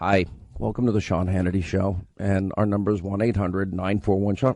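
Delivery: put-on calm, quiet radio delivery. Retelling his answer to his kids, who said he screams: imitating a calm, quiet radio delivery. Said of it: "let me do the radio show this way".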